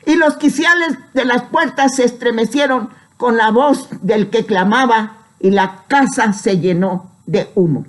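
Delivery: Bible verse proclaimed, settling toward its end; solemn scripture reading. Acted. Preacher reading of the shaking temple doors, solemn proclamation. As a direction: read it out to the congregation. Reads scripture aloud to congregation.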